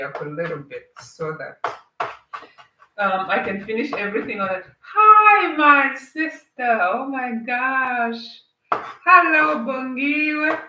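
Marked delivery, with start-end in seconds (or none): 4.8-10.6 excited greeting. Real, not acted. Greeting a viewer joining live.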